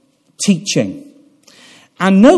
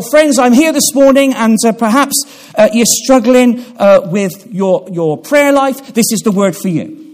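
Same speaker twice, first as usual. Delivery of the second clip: mock modern preacher; 4 semitones higher than usual. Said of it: "in a lot of modern day preaching".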